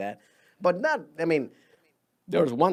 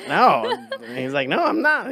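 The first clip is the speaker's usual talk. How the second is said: laughing; 3 semitones higher, 6 dB louder than usual. Real, not acted. Laughing retelling of racist guy.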